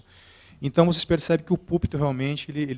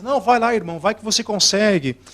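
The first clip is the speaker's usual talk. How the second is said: much higher and louder, rallying cry; table cheering on; 5 semitones higher, 8 dB louder than usual. Retold or imitated. Table members urging the stuck speaker, loud encouraging shout. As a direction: fire him up to go on. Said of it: "as pessoas da mesa".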